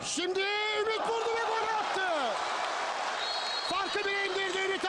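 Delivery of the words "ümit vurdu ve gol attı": fast, excited goal shout; screaming football commentator. Acted. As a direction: call the goal in a rush. Goal call in match commentary.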